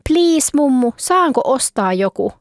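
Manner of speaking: put-on a little girl wheedling grandma, slow at the end; pleading girl. Anna begging grandma for a hobby horse, pleading child voice.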